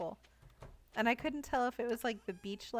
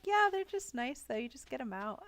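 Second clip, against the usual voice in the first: breezy reassurance, imitated; 3 semitones higher than usual. Server shrugs off the octopus to a nervous tourist, reassuring. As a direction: lightly brush off the danger, pitched up at the start. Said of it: "she was just so reassuring".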